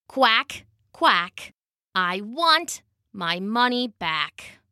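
slow, deliberate duck speaking up; worn out but refusing to give up; battered, determined duck. Acted. Waterlogged duck on the throne demands money back, slow and dogged.

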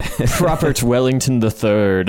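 slow, grand posh announcement; posh aristocrat. Pretend. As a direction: say the name like British nobility. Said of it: "a very posh, uh, first name".

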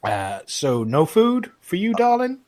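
high, rising barmaid voice. Acted. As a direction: ask him sweetly. Innkeeper asks.

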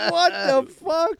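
very high, loud, drawn-out disbelief; incredulous outburst. Retold or imitated. Retelling the studio's shock at Shaq's threat, incredulous. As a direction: stretch every word in mock astonishment. Acting out stunned reaction to threat.

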